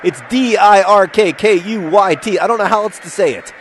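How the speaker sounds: mock Dutch commenter. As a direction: spell the name out letter by letter like a fed-up pedant. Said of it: "will probably be in comments being like".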